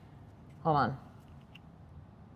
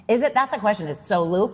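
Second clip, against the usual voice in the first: normal talking voice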